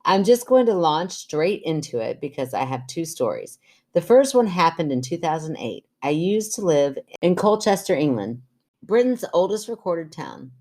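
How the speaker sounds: measured podcast story reading; even-paced reader's voice; reading letter aloud. Acted. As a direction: read a listener's letter out clearly. Reads listener's letter aloud.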